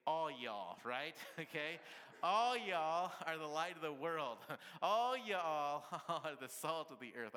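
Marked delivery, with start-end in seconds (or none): 0.1-0.8 All y'all, loud with a Texas drawl; hammed-up Texan All y'all. Shown as a demonstration. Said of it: "if you're really from Texas, you say". 2.2-7.4 loud Texan drawl broken by laughter; hammed-up Texan, giggling; Texan accent, laughing. Shown as a demonstration. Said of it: "if you're really from Texas".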